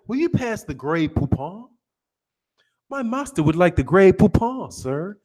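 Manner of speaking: lightly put-on British servant's voice; mock British butler. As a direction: make a polite, hammed-up British request. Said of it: "it was a butler".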